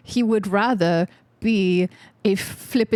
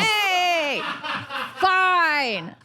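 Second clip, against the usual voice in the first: mock offended; 9 semitones higher than usual. Mock indignant protest, laughing.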